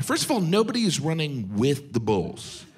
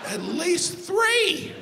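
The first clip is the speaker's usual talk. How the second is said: mock high drawl; much slower than usual. Joking answer, drawn out.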